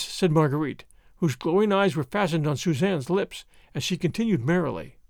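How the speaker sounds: ordinary delivery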